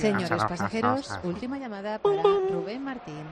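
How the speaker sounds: slow, measured public address voice; airport announcement. Pretend. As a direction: announce it like an airport gate call. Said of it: "como cuando anuncia".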